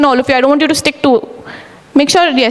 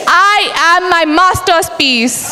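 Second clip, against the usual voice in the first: shouted affirmation. Shown as a demonstration. Repeated affirmation line.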